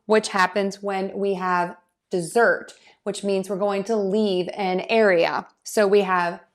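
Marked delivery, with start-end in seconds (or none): 2.1-2.7 "dessert" stressed de-ZERT; short first syllable, strong second in "dessert". Shown as a demonstration. Teacher gives the verb example, second syllable of "dessert" stressed. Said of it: "we typically stress syllable two".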